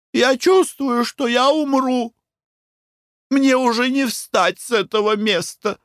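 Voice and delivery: high, feeble hammed-up dying wail. A narrator's reading. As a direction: play the fainting lady to the hilt. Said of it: "умирающим голосом".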